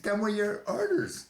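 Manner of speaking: hollered high and loud at the captain; retold furious outburst, loud and high; angry hollering. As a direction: yell it at your superior, pitch way up. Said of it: "I was actually hollering".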